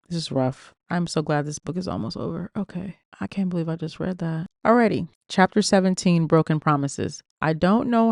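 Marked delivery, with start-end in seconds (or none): 0.1-4.5 softer, subdued reader's own reaction; real dismay. Real, not acted. Reader reacting to a grim passage, quietly shaken. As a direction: let it drop away, shaken.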